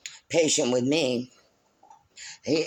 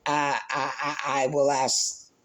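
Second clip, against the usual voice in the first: stuttering; slower than usual. Real, not acted. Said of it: "I'm stuttering".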